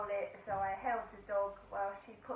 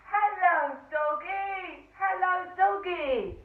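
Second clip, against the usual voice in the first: put-on high, loud baby-talk greeting to the dog; imitating a taxi driver's loud, high hello to a dog; mock sing-song greeting to a dog; 7 semitones higher, 9 dB louder, slower than usual. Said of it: "the Indian bloke goes".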